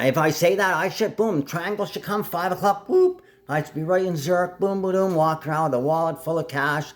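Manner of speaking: high, animated rundown with sound effects; excited high-pitched play-by-play of a daydream; excited imagining. Real, not acted. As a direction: pitch it up and punch the booms. Imagining instant travel on command.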